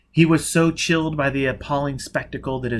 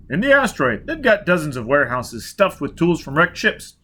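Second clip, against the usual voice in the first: shouting; 6 semitones higher, 5 dB louder than usual. A narrator's reading. Still shouting.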